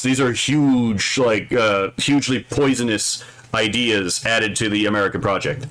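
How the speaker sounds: talking through a mouthful; chewing between words; eating crunchy fried chicken. Real, not acted. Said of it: "I'm eating chicken".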